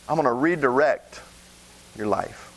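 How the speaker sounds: God promising to redirect you, low and hushed. Acted. God speaking in sermon.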